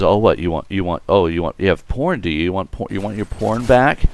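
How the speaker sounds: mildly indignant mom, rising into a question; retold upset, pitch climbing at the end; upset mother. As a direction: imitate a scandalized mother's challenge. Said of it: "she gets very upset".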